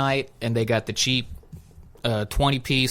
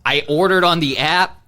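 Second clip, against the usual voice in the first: raised, louder flustered protest; mock exasperation; 6 semitones higher, 5 dB louder than usual. Customer answering the drive-thru question, mock exasperated. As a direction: plead your case, higher and louder.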